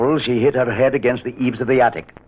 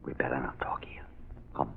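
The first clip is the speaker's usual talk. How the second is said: hushed whisper so no one hears; 12 semitones lower, 19 dB quieter than usual. Acted. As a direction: whisper it, afraid of being overheard. Lovers hiding, fear of being heard.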